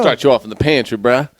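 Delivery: loud, teasing echo; teasing the pantry offer; mocking repeat. Real, not acted. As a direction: rib him about the pantry job. Mocking the phrase.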